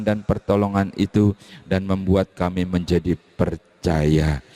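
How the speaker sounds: steady, earnest prayer voice; congregational prayer. Real, not acted. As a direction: lead the church in prayer. Leads the closing prayer. (doa pembuka minggu yang khusyuk)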